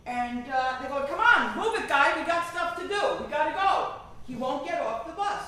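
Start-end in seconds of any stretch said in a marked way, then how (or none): 1.1-4.0 loud, pushy hurry-up; impatient jeering. Retold or imitated. Passengers pushing the old man to get off, loud and impatient. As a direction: rush him like an annoyed commuter.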